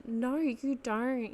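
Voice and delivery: drawn-out, whiny Aussie; Aussie whiny accent. Real, not acted. Podcaster reassuring listeners about oats, slipping into whiny Aussie accent. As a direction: stretch it into a whiny Australian twang. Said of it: "that real Aussie whiny accent".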